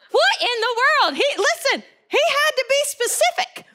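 high-pitched, excited preaching with laughter breaking in; tickled. Real, not acted. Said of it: "I got so tickled".

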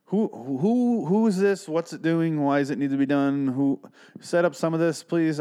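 high-pitched, pleading confusion; exasperated bafflement. Retold or imitated. Reviewer begging the movie to explain itself, exasperated bafflement.

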